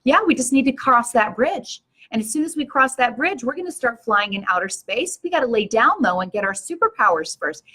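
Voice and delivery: imitating a child's earnest certainty; total conviction. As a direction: retell a child stating it with full conviction. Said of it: "looks at you with total conviction".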